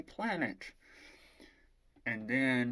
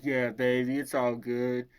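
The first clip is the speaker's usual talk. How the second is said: louder, reassuring hero impression; Rise; 6 dB louder than usual. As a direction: lightly play the confident boyfriend soothing her. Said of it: "And he's like".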